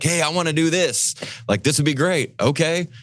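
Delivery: mock eager leader. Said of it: "harebrained idea".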